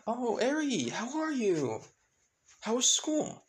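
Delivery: high, sing-out cheery greeting; brushing it off. Acted. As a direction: greet as if nothing has happened. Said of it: "just brushing it off like nothing has happened".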